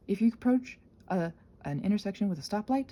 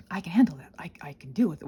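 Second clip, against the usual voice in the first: whisper; 4 semitones lower, faster than usual. Real, not acted. Calming herself after intrusive thought.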